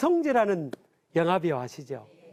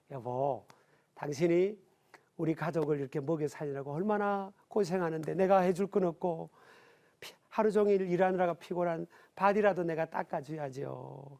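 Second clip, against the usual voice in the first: tender wife; 3 semitones lower, 3 dB quieter than usual. Retold or imitated. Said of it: "wife tenderly washing husband's feet".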